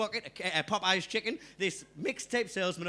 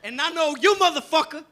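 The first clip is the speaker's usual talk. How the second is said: higher, louder sly recognition; knowing hustler; 5 semitones higher, 6 dB louder than usual. Retold or imitated. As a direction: lean in like you've got him figured out. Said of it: "And he goes".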